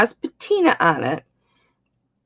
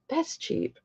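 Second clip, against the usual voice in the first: a much softer breathy whisper; whispered aside; 8 semitones higher, 13 dB quieter than usual. Real, not acted. Host to auction viewers about the price, a whisper. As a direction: drop to a whisper as if sharing a secret.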